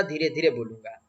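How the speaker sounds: a calm, held-back hush on धीरे धीरे बोलूंगा; restrained soft speech. Shown as a demonstration. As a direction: say धीरे धीरे बोलूंगा softly, reining in a big orator's voice. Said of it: "अब मैं धीरे धीरे बात करूंगा".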